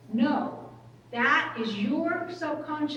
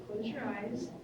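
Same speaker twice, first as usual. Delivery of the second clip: gently, a touch softer, "close your eyes"; soft guiding voice; 7 dB quieter than usual. Retold or imitated. Counsellor gently guiding the girl inward, softly. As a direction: quietly invite her to close her eyes.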